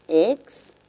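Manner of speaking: "Extinguir" broken into ex, tin, guir with long pauses; syllable by syllable. Shown as a demonstration. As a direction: separate each syllable of "Extinguir". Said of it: "Veamos la palabra extinguir fonológicamente".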